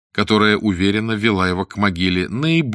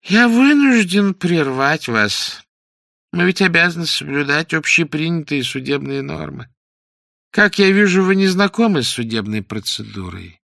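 soft, plaintive; 6 semitones higher, 3 dB louder than usual. A narrator's reading. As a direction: interrupt in a high, pitiful voice. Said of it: "мягким, даже жалобным голосом". (мягкий жалобный голос судьи)

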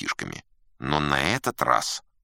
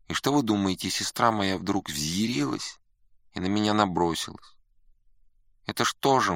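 aggrieved student; 5 semitones higher than usual. Acted. Student telling how his sister attacked him, aggrieved whine. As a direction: complain like a wronged younger brother. Voices the student's family grievance.

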